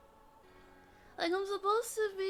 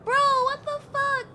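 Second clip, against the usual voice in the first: outraged yell; 7 semitones higher, 8 dB louder than usual. Real, not acted. Outraged at game twist.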